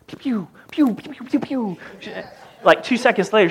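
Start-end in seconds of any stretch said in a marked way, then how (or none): 0.1-1.8 breathy pew-pew gun noises, higher, very soft; imitating video game shots. Dad imitating his Xbox gun sounds, soft and breathy. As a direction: mouth the laser shots under your breath.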